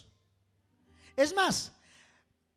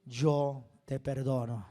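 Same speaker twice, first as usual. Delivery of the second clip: lower, gentle, tender pardon; precious voice; 8 semitones lower than usual. Retold or imitated. Jesus gently forgiving the terrified prisoner, tender. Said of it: "una voz preciosa".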